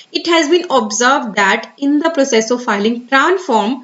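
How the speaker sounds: very slow, careful reading of an official notice. Acted. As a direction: read the advisory word by word. Reads the English advisory aloud. (धीमे, सावधानी से सरकारी सूचना पढ़ना)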